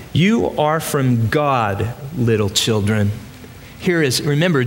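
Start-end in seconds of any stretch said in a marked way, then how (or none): 0.1-3.1 lightly voiced gentle old grandpa, slow; a hint of a tender great-grandfather. John in his nineties gently comforting the church, slow. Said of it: "his old grandpa voice".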